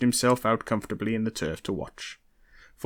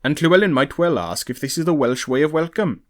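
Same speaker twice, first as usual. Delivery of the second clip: louder, higher, indignant retort; prickly comeback, pitched up and forceful; snapped; 5 semitones higher, 5 dB louder than usual. A narrator's reading. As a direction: snap it back at your cousin. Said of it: "he snapped".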